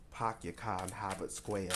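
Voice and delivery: put-on amateur Boston accent, r's dropped; bad Boston accent. Reader making fun of herself with a bad Boston accent. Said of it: "a really shitty accent".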